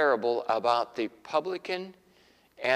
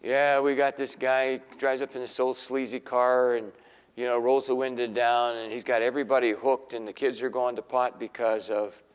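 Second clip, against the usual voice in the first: bragging neighbor; 3 semitones lower than usual. Retold or imitated. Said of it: "bragging about your neighborhood drug dealer".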